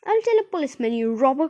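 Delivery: high, loud accusation; indignant shout, pitched well up; angry cry. A narrator's reading. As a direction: cry it out in outrage. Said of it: "cried the woman".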